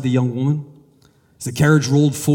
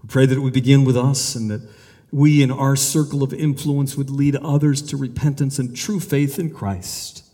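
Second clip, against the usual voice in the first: prayer. Acted. Pastor praying for the nation before congregation, earnest. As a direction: plead with God on behalf of the land.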